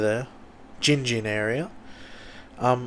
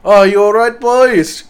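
higher, louder hearty teacher checking in; teacher's voice; 9 semitones higher, 12 dB louder than usual. Retold or imitated. Teacher asking the boys if they're okay, loud hearty call. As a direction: play the jolly teacher breaking it up. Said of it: "he's like".

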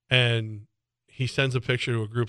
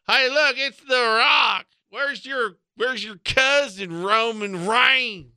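loud, high mock Southern fan yelling at the Rock; hammed-up Larry the Cable Guy bellow; country fan hollering from the stands; redneck NASCAR fan; 9 semitones higher, 3 dB louder, slower than usual. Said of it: "I sound like a nasally version of Larry the Cable Guy".

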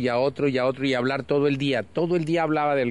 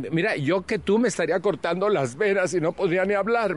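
higher-pitched mock dismay; retold astonished protest, pitched up; incredulous friend; 5 semitones higher than usual. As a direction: act out a friend's baffled disbelief. Friend's shocked reaction, retold.

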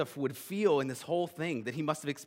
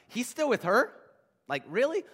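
higher-pitched disbelieving question; mock incredulous; 7 semitones higher, 4 dB louder than usual. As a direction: read it like a scandalized tabloid headline. Incredulous tabloid headline joke.

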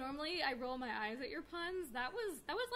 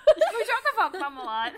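laughing; 6 semitones higher, 17 dB louder than usual. Real, not acted. Repeating slip laughing.

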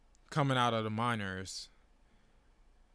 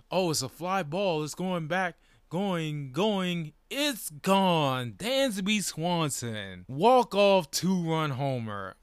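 imitated home-run call, raised and stretched out; Charlie Soules; 4 semitones higher, 4 dB louder, slower than usual. Announcer calling a walk-off homer, excited imitation. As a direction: call it like a radio play-by-play man, building to drawn-out words. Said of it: "Charlie Soules is like".

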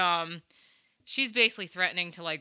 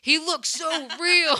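high, slow, mocking; mock the obviously fake owl; sarcastic; 9 semitones higher, 7 dB louder, slower than usual. Real, not acted. Friends laughing at a fake owl, high and slow sarcasm.

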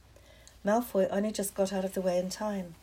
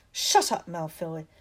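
snapped; 3 semitones lower, 4 dB louder than usual. Acted. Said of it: "snapped Parvati Patil".

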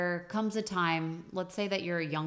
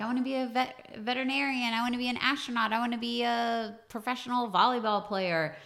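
lightly acted child, higher and quick; eager kid; 7 semitones higher than usual. Kid listing dream jobs to grown-ups, higher-pitched childlike voice. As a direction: rattle off big dreams like an excited kid. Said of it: "you're a kid and you're like".

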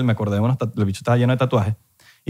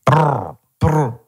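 a rapper as teacher; slower than usual. Pretend. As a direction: play a rapper teaching the R, bored and slurred. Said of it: "clase de la pronunciación de la R".

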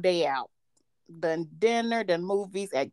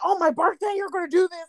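higher, whiny mock boyfriend; upset boyfriend; 9 semitones higher than usual. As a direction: imitate his wounded whine.

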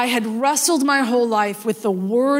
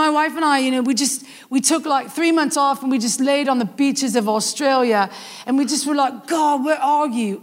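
put-on Australian accent; 3 semitones higher than usual. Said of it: "saying in his precious accent".

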